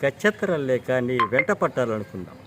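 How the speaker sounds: a heated screen tirade that climbs in pitch and volume; Akkineni Nageswara Rao impression. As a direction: mimic a film hero's furious dialogue to the heroine. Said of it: "suppose Akkineni నాగేశ్వరరావు గారు ఉన్నారు".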